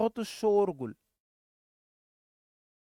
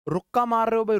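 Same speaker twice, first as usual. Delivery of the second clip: loud call; 5 semitones higher, 6 dB louder than usual. Real, not acted. Teacher calling out excitedly.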